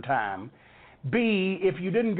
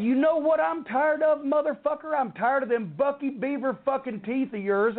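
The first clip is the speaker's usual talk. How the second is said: furious comeback; 6 semitones higher than usual. Retold or imitated. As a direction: fire it straight back across the table. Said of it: "I said".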